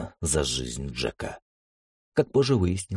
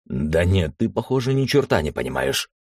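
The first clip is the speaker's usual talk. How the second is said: angry outburst; 3 semitones higher than usual. Acted. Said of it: "внезапно вспылил Джек".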